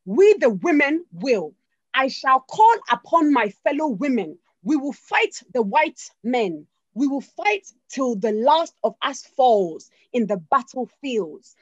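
put-on loud, slow Ghanaian-accented war cry; rally the women in a Ghanaian accent, slow and loud; Ghanaian accent with emphasis. Ya Asantewaa calling the women to fight, in a loud slow Ghanaian accent. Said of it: "I'm gonna say it with accent and emphasis".

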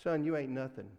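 a hint of a Mississippi preacher scolding, "Son"; mild Mississippi accent. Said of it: "my Mississippi accent".

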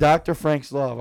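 loud, slow brand announcement; improvised pitchman, loud and slow; fake ad read. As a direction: sell the name like a slogan. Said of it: "do a fake ad on the spot".

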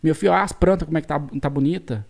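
rural caipira speech, "plantas" as "pranta"; countryside caipira accent. Retold or imitated. Son quotes his mother asking after her plants, caipira accent. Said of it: "conversam desse jeito".

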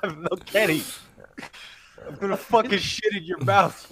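as much fury as the sedatives allow; sedated anger. Retold or imitated. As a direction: imitate someone mad but heavily medicated. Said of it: "he's, like, on lorazepam".

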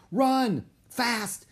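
high, punched cries; excited shout to get moving; urgent command. A narrator's reading. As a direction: urge someone to sprint. Annie urging Jack to run.

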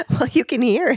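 croaky with a cold; hoarse cold voice, laughing; frog voice. Real, not acted. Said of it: "you really do sound a little bit like that".

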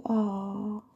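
cooing aww. Retold or imitated. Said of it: "I be like".

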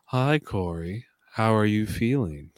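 flat, even computer-like host voice; Big Brother monotone voice. Retold or imitated. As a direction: speak level with no tune, like HAL. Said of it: "a monotone voice".

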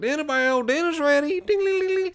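very high hollering country cook; farm dinner call. Acted. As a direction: call everyone in and imitate the ringing bell. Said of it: "it's the dinner bell, like in a country farm".

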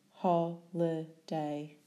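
"Holiday" slowly, syllable by syllable; split into syllables. Shown as a demonstration.

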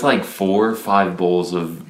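usual speaking voice

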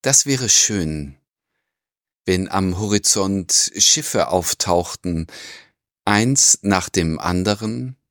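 slow, measured poetry recitation; poem reading. Acted. Podcast host opens the episode with a poem, slow recitation. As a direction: read the verse slowly, pausing after each line.

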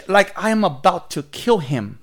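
ordinary delivery

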